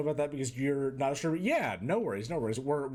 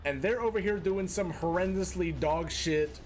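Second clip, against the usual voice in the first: mock scolding; 4 semitones higher than usual. Scolding viewer Walner as boss.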